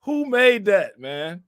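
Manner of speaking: high, falling exclamation; amused disbelief. Real, not acted. Streamer asking who made the funny post, amused disbelief. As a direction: demand it in high-pitched disbelief.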